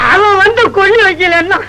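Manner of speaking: grieving father, tearful; crying. Acted. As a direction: voice breaking into tears. Old man grieving his son.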